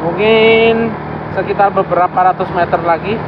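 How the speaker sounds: muffled behind a mask; talking through a mask; through a face mask. Real, not acted. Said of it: "suara saya tidak kedengaran karena ... pakai masker".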